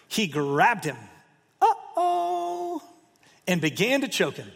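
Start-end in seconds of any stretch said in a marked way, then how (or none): 1.6-2.8 uh-oh. Acted. Preacher voicing mock alarm.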